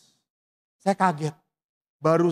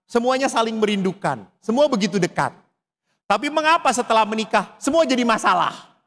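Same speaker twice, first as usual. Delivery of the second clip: higher, louder preaching at full force; fiery preaching; 9 semitones higher, 6 dB louder than usual. Acted. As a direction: rouse the congregation with passion. Khotbah berapi-api. (berkhotbah dengan lantang dan berapi-api)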